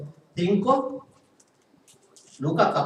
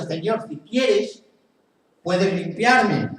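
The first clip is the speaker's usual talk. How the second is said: slow, pleading leper begging his Lord; slow leper's plea; slower than usual. Acted. Leper on his knees asks Jesus, slow pleading. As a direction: beg slowly, kneeling before Jesus.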